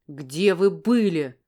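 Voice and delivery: loud, slow, drawn-out roar with "вы" dragged out; man yelling at a woman who vanished; furious yell. Acted. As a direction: roar it at her slowly, word by word. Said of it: "заорал он, как потерпевший".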